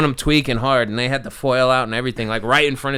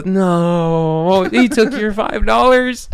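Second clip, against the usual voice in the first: holding back laughter; 6 semitones higher, 4 dB louder, much slower than usual. Real, not acted. Dry reply trying not to laugh.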